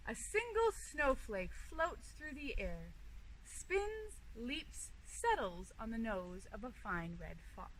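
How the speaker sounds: gentle storybook reading; reading to children. Acted. Zoo educator reading a story to kids, gentle storybook voice. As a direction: read it like a bedtime picture book. Reads picture book aloud.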